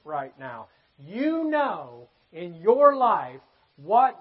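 slow, stretched pulpit emphasis; emphatic preaching. Acted. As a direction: press it on the congregation, drawing out key words. Preacher presses the point on listeners.

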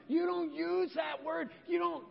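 hammed-up appalled parent; mock stern dad. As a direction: play the shocked father setting rules. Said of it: "I'd be like".

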